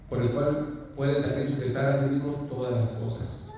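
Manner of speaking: measured, emphatic Bible reading; scripture reading. Acted. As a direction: read the verse out to a congregation. Reads the Bible passage aloud.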